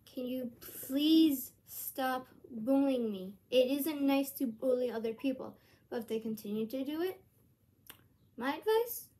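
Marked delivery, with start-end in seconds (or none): 0.1-5.6 stern request. Shown as a demonstration. Vlogger modelling words to say to a bully, stern. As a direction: spell it out firmly, word by word. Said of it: "ask them in a stern voice like this".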